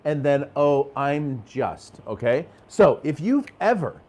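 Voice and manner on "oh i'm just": slow, drawn-out sagging sigh of a phrase; deflated, slow. Retold or imitated. A coach mimics a client slowly shrinking when asked his job. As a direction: drag it out like you're shrinking. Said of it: "it comes out like that".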